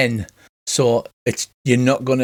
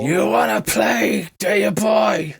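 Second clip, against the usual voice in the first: high, drawn-out taunting spirit voice; menacing ghost; 8 semitones higher, slower than usual. Acted. Spirit flies straight at Goth with a challenge, high taunting voice. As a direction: challenge them as a ghost, pitched well above normal. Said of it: "flies straight at you and says".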